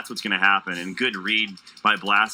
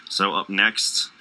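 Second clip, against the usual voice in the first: slipping into a slow, drawn-out Chicago accent; Chicago vowels creeping in, slow and deliberate; slower than usual. Real, not acted. Caster in Illinois drifting into a slow Chicago accent. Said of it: "I don't know why I'm fading into the accent".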